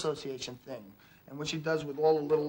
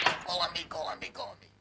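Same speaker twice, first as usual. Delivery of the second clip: Tom; 2 semitones higher than usual. Acted. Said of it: "this dirty mouth kid named Tom".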